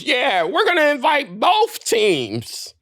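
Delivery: high, drawn-out mimicry; mock first lady. Host mimics Jill Biden at the mic, high drawling mockery. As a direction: put on a slow, high politician's voice. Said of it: "steps to the mic and goes".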